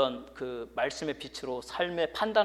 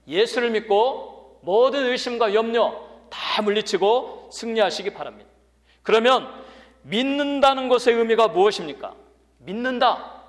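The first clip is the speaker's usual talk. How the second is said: loud, raised, rousing pulpit voice; forceful preaching; 7 semitones higher, 10 dB louder than usual. Real, not acted. Preacher exhorts the church to believe, forceful preaching. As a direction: exhort the congregation with full projection.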